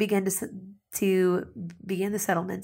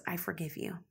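soft forgiveness; 10 dB quieter than usual. Acted. Believer voices forgiveness softly.

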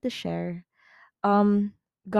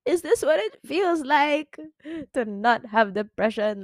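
high, wondering quote of herself; a retold, high amazed question; 7 semitones higher than usual. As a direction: ask it in disbelieving wonder. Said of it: "I was like".

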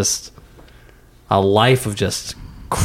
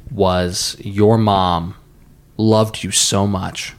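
solemn storyteller; 6 semitones lower than usual. Acted. Slow dramatic retelling of story.

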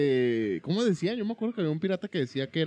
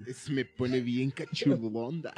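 slow flirty voice; slower than usual. Pretend. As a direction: drawl it out teasingly. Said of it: "le dijo".

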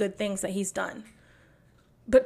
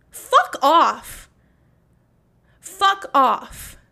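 loud, higher angry fuck off; furious yell; 5 semitones higher, 8 dB louder, much slower than usual. Real, not acted. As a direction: bark it with full contempt. Furious dismissal of the judge.

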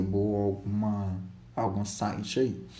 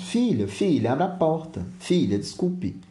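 pleading father; 6 semitones higher than usual. Acted. Father asking his daughter to open up, pleading. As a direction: coax through a shut door.

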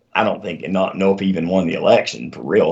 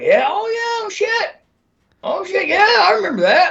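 mock sudden realization. Old guy suddenly remembers.

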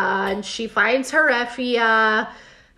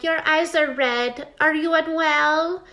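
slow, higher-pitched needling concern; mock concern; 4 semitones higher than usual. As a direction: imitate a queen prying with fake care. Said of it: "Emma's just being annoying".

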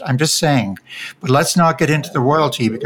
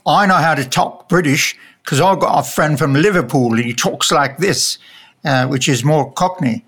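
bad Liverpool accent. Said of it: "You sound like Dick Van Dyke right now".

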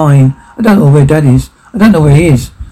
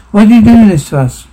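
higher-pitched acted reproach; mildly raised, accusing question; pleading reproach; 4 semitones higher than usual. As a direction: demand an explanation from someone who hurt you.

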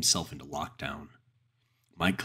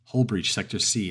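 automated voice; 4 semitones higher, 6 dB louder than usual. A narrator's reading. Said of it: "an automated voice said".

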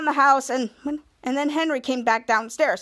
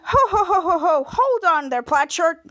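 jolly laugh; 3 semitones higher, 4 dB louder, slower than usual. Retold or imitated. Captain Man laughing, stopping Henry.

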